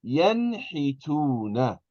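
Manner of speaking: "Yanhituna" slow, with a clear n before the h; full noon. Shown as a demonstration. Teacher models noon before ha, slow "Yanhituna" with a full n. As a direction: stretch out "Yanhituna", sounding the n fully. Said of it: "You're going to pronounce the noon".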